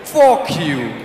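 slow, drawn-out mock American; imitating the American. Dreamer repeating the American's trick, slow mock American accent. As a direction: copy the American's stretched-out protest. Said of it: "do the same thing where the guy talk".

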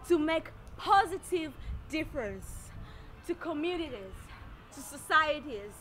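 measured lines with long dramatic pauses; poetic recitation. Acted. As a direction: recite it like a spoken-word self-portrait, phrase by phrase. Recites poetic third-person self-portrait.

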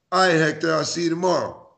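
light friendly reading; friendly see-you. Shown as a demonstration. Friend reading the text, friendly and easy. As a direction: say it like you're fine with it. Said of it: "Or they said".

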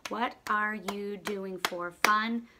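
slowed sentence for writing down; slow dictation. Shown as a demonstration. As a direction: read it word by word as you write. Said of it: "let's write down".

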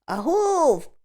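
high, drawn-out answering call; long calling 'ahoy'; distant halloo. A narrator's reading. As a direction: halloo back from far off. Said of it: "чується десь далеко праворуч".

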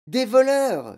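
high, loud, choked alarm; strangled cry. A narrator's reading. Mother fearing burglars, strangled cry. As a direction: force it out as if choking. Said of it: "d'une voix étranglée".

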